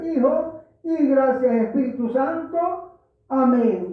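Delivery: earnest pulpit prayer, steady and measured. Acted. Pastor praying aloud before preaching, earnest prayer voice. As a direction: pray it aloud for the whole congregation.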